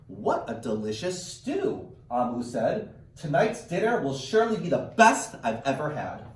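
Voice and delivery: put-on slow, expressive read-aloud to children; read-aloud storytelling. Teacher reading a picture book to her class, slow and expressive. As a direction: draw the kids into the story, slowly.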